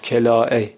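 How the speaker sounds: کلاء said kela' with a glottal stop at the end; کلاء stressed on its final hamza. Shown as a demonstration. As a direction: close کلاء with a clear hamza. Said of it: "با همزه".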